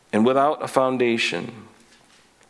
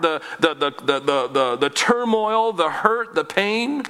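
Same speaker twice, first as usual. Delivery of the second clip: rising intensity. Real, not acted. Pastor listing the heart's pain.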